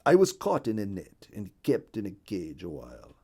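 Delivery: lightly voiced bird recounting a journey; a touch of character voice, earnest storytelling; Hungarian the Partridge. Partridge telling the bluebird of his capture and journey, lightly voiced.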